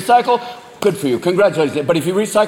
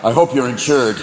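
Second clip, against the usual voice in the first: vengeful buck; 3 semitones lower than usual. Acted. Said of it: "buck that jump out in front of your car like".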